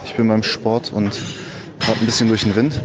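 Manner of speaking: poor audio quality recording; recorded on a bad mic at the gym; low quality stream. Real, not acted. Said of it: "Entschuldigt die Soundquali".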